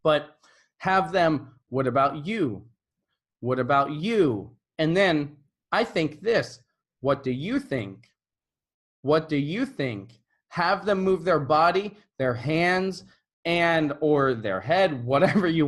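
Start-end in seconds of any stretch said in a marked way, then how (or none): 1.7-10.2 What about you, with the weight on you; stress demo. Shown as a demonstration. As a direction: land on you each time, like a drill. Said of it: "putting the right emphasis on the right syllable".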